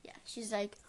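soft unvoiced whisper. Real, not acted. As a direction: whisper it back. Whispering reply.

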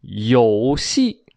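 slow, drawn-out mock-Japanese accent. Emperor suddenly sees hope, drawn out in mock Japanese. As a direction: stretch it out like pretend Japanese. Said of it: "怎么日本话都出来了".

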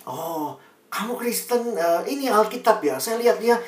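a hint of a surprised classmate; surprised friend. Friend noticing the Bible, mild mock surprise.

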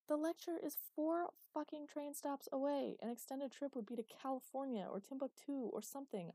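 loud, high, slowed exasperated rant; exasperated shout. A narrator's reading. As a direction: hammer each word home, fed up with him. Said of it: "she shouted in exasperation".

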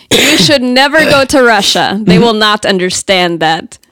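put-on Russian accent. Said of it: "my best Russian accent".

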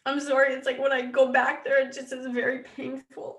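tearful, breaking into a whisper at first; fighting back real tears; real emotion catching in the throat; choked up. Real, not acted. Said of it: "I didn't mean to get emotional".

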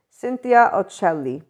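"Cynthia Ocelli" said with a light Italian accent. Shown as a demonstration. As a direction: roll the name lightly, Italian style. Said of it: "I pronounced it with an Italian accent".

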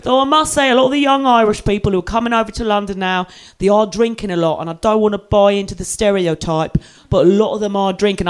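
lightly voiced London taxi driver; London cabbie accent. London driver on young Irish drinkers, mock London accent. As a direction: imitate an opinionated London cabbie. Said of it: "one of these London taxi car drivers".

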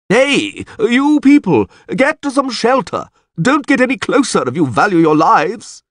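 high, urgent shout to a crowd; shouted warning. A narrator's reading. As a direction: call out and order them away. Warning the crowd to take shelter.

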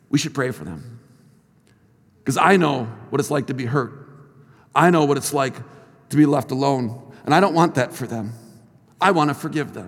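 low, soft and tender; gentle retold plea. Hurt student urging teacher to pray for bullies, gently sincere. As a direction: quote her softly, low and sincere.

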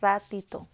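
"ratito" said firmly, ending in -to; a loud, clear "ratito" with T in the ending; Mexican "ratito". Shown as a demonstration. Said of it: "in Mexico we say".

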